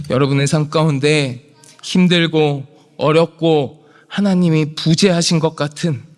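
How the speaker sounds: normal talking voice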